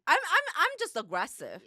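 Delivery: laughing through the admission. Real, not acted. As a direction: giggle it out at yourself. Laughs at herself.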